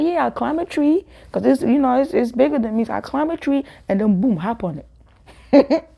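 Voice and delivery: high, matter-of-fact tall tale. Retold or imitated. Girl fooling classmates with a tall tale, high and matter-of-fact. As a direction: spin the lie straight-faced. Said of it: "I said".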